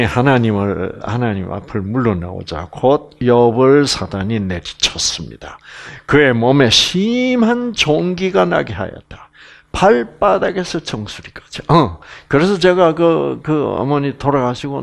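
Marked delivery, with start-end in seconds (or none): none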